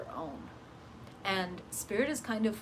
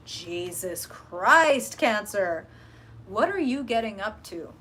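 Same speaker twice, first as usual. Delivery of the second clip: surprised; 6 dB louder, slower than usual. Real, not acted. Startled by the cards.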